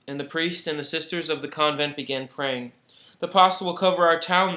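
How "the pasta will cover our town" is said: fearful cry. Acted. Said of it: "they cried".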